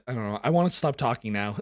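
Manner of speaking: normal talking voice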